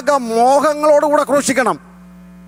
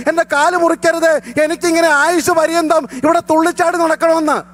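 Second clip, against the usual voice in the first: raised fervent preaching voice; preaching at full force; 5 semitones higher than usual. Acted. Pastor preaching on sacrifice to his congregation, full force. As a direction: drive the message home to the church.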